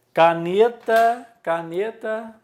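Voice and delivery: CANETA high and loud, NE stretched; stressed penultimate syllable. Shown as a demonstration. Teacher showing a pen as example, stress on NE in "caneta". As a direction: punch the NE in "caneta". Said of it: "paroxítona".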